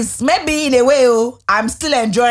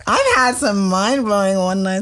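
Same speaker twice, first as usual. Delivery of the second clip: bursting into a big laugh before admitting it; slow, giggly confession of mind-blowing nights; 3 semitones higher, slower than usual. Real, not acted. Confessing after being pressed.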